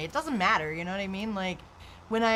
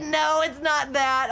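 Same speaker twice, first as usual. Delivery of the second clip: doctor's reassurance; 6 semitones higher, 5 dB louder, slower than usual. Retold or imitated. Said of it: "They said".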